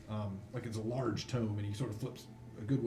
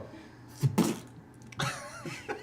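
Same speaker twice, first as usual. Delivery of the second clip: high voiceless burst of noise; vocal sound effect of a heavy drop; long mouth-made thud and clatter; imitated crash noise. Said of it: "you just, you just hear a".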